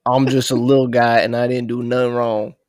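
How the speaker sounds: loud little guy at normal pitch. Acted. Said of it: "say it in your best little guy voice".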